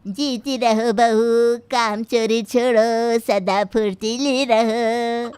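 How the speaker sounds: a sharp-tongued granny taunting her daughter-in-law; stern old grandmother. Acted.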